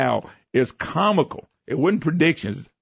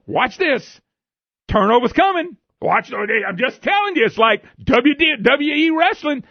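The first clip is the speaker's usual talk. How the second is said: higher, excited ribbing of the family; teasing dad egging on the family; gleeful taunt; 8 semitones higher than usual. Retold or imitated. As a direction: crow it like a fan needling his wife. Teasing wife during the game.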